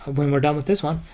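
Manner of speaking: lively bedtime story read; story narration. Acted. Dad reading Jack and the Beanstalk to his son, lively storytelling. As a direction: read it out to a little boy.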